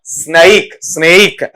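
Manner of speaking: स्नेक with a gliding vowel, "sne-ik"; corrected pronunciation. Shown as a demonstration. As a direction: repeat स्नेक as "snay-ik". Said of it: "ये क्या बन जाएगा आपका?".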